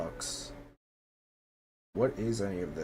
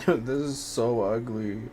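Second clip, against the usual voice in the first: laughing in disbelief; 4 semitones higher, slower than usual. Real, not acted. Laughing at the ugly furniture she placed, amused disbelief.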